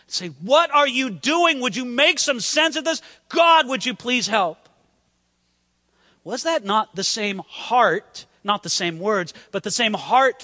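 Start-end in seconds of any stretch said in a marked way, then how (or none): 0.3-4.7 crying out to God. Acted. Man in hardship calling on God, crying out in appeal. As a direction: plead for help with stretched words. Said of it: "To cry out to God in such hardship".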